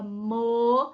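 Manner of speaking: "mocinho" broken into mo, ci, nho; long pauses between the syllables of "mocinho". Shown as a demonstration. Teacher asking where the syllable is, word pulled apart. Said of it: "Onde tá a sílaba".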